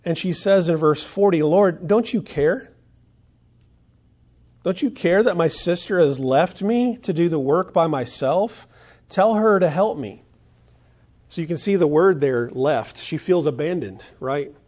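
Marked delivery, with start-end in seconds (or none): 1.4-10.2 raised, louder pleading complaint; exasperated plea. Acted. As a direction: cry out to the Lord, fed up. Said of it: "she cries out to the Lord".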